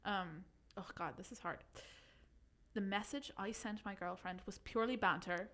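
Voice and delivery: put-on reading in a light Irish accent; a gentle Irish lilt throughout. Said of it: "do you think I could do it in Irish?".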